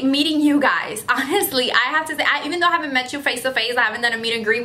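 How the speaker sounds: ordinary delivery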